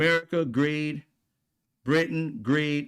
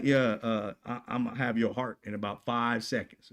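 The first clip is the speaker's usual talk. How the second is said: quiet menace; 5 semitones lower, 5 dB quieter than usual. Retold or imitated. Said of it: "Are you gonna like".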